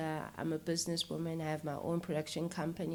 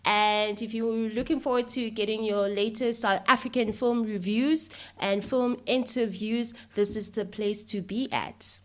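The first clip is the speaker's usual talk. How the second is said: bubbly vlogger greeting, higher and louder; YouTube intro voice; 4 semitones higher, 7 dB louder than usual. Shown as a demonstration. Host asks how she opens her YouTube channel, bubbly vlogger intro. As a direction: hype up your channel viewers. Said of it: "uto-introduce njani? ... athi ukuthi, "Okay, ngo".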